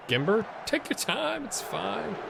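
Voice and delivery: high, coaxing call to a player; yelling from the sidelines. Real, not acted. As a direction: urge him to slow down. Coaching players through the screen.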